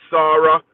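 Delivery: "Sarah" said the wrong way, with an "ah" first vowel run into the second; wrong pronunciation. Shown as a demonstration. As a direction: say "Sarah" as one joined SAH-ruh, loud. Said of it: "please spell my name right".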